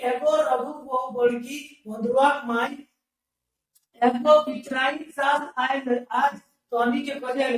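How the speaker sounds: slow sing-song text reading; lilting recital of the text; reading aloud. Acted. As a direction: chant the passage like a class reader. Reads the dialect text aloud.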